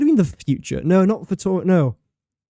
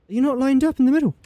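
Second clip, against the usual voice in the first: mock scolding; 10 semitones higher, faster than usual. Scolding game piece.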